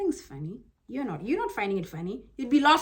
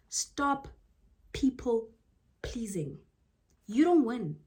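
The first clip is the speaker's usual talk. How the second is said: whisper; slower than usual. Shown as a demonstration. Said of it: "whispered advice".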